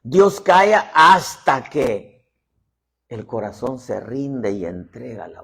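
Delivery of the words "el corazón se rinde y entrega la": whisper. Acted. Closing point, hushed.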